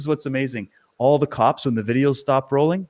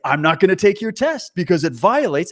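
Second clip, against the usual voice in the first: higher-pitched mimicked refusal; lightly acted defiance in a higher pitch; defiant refusal; 5 semitones higher than usual. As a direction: imitate him firmly refusing, pitched up. Mimics man refusing the test.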